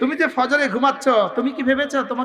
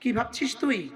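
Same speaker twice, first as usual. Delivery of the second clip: rebuking; 9 dB quieter, slower than usual. Acted. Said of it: "ধমক দিয়ে আল্লাহ তাআলা বলেন".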